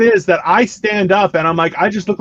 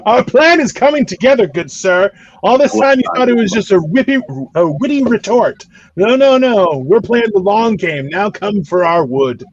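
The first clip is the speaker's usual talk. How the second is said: lightly hammed-up plotter, pitched up; mock scheming mastermind; 3 semitones higher than usual. Comic gloats about Canada's secret plan, mock villain. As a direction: gloat over your long game in mock grandeur.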